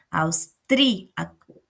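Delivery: "Austríaco" slowly broken up, with force on "trí"; teacher's slow division of "Austríaco"; syllable by syllable. Shown as a demonstration. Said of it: "é importante fazer a divisão silábica".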